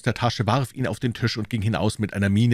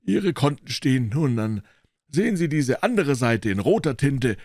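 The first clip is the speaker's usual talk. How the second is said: higher, pushy dealer lecturing a doubter; triumphierender Händler; 8 semitones higher, 4 dB louder than usual. Acted. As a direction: make him read the proof aloud. (auftrumpfender Händler, hohe Stimme)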